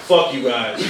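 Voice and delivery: low, measured insult; mock sincere. New dad to the childless audience, mock sincere. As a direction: deliver it low, as if heartfelt. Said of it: "I mean this sincerely".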